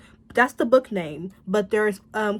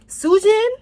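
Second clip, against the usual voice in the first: outraged cry; 10 semitones higher, 8 dB louder than usual. Real, not acted. Crying out villain's name.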